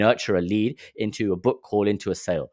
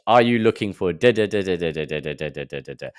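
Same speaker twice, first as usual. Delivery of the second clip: mock sales pitch fading; 3 semitones lower than usual. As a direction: rattle off the pitch and let it trail off. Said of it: "he does the same pitch".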